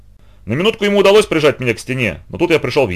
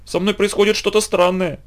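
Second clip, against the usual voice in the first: a faint, strained voice pitched higher; weak voice; 8 semitones higher than usual. A narrator's reading. Aunt telling the boy she feels strange, weakly. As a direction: sound suddenly unwell and feeble. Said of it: "слабым голосом проговорила она".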